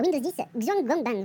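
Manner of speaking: slow, careful attempt at a Chinese accent; 中文口音，慢慢读出. Shown as a demonstration. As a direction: read the Chinese name out slowly in a clumsy Chinese accent. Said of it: "Pardonnez mon accent chinois".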